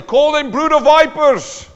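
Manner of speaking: high, loud, slow mocking quote. Preacher mocking Rick Warren's books, loud slow mock quote. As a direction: ham it up as an absurd instruction.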